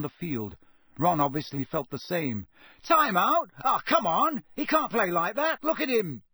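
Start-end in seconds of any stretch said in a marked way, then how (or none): 2.8-6.2 high-pitched indignant shouting from the stands; Ron's heated protest. A narrator's reading. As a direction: cry out in protest at the referee. Fans protest during match.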